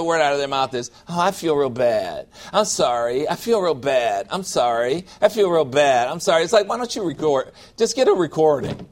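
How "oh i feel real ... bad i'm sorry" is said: low, droning mock self-pity; sulky sorry-for-myself voice; mopey apology. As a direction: whine it like a broken record. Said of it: "Get a recording and hit that every time".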